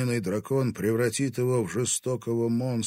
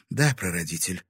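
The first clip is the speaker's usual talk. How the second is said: submissive; 3 dB louder than usual. Acted. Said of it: "покорно".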